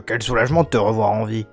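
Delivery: a hint of an old village elder; old man voice. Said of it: "J'ai fait une voix de vieux, mais grave".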